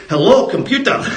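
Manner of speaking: lightly imitated Scottish accent; a hint of a put-on Scottish accent; Scotty. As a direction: quote it in mock Scottish. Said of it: "Scotty goes back to nineteen eighty-four".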